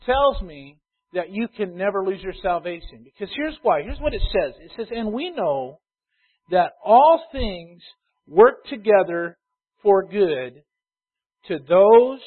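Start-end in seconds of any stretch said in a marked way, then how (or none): 4.9-12.2 scripture reading. Acted. Reads scripture slowly.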